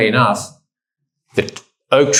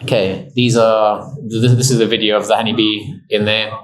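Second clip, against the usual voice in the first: out of breath. Real, not acted. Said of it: "Sorry, I'm out of breath".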